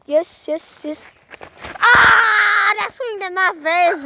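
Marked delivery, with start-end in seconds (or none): 1.8-4.0 startled yelp. Real, not acted. Branch hit his face.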